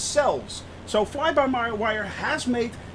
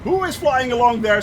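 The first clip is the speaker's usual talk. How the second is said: surprised; 6 semitones higher, 5 dB louder than usual. Real, not acted. Spots plane beside him.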